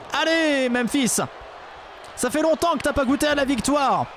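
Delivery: high shouted ringside call; wrestling commentator. Pretend. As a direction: hype it up like a ringside announcer. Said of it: "on fait comme si tout était réel".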